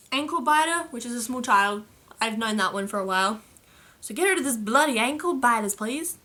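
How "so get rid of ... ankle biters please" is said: lightly hammed-up Australian accent. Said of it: "say it with that accent".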